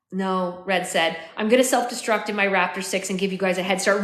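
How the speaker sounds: measured, expressive audiobook reading; story narration. A narrator's reading. Narrator telling of finding his dying future self, story narration. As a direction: read it as an unfolding dramatic story.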